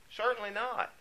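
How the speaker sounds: high "Certainly not", stress on "Certainly", falling at the end; emphatic answer. Shown as a demonstration. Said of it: "emphatic answer".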